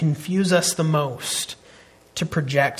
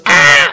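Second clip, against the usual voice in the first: put-on loud, bright happy baby squeal; a sudden joyful baby shout; baby's happy squeal; 3 semitones lower, 10 dB louder than usual. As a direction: imitate an excited baby crying out. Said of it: "so she just goes".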